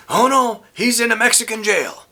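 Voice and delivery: high-pitched retelling of a panicked mother; worried mom voice, lightly acted; frantic mom. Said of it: "My mom is all frantic".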